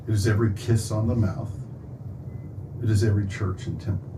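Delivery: measured poem reading with pauses between lines; poetry recitation. Real, not acted. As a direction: recite it line by line, letting each image land. Recites own poem to audience.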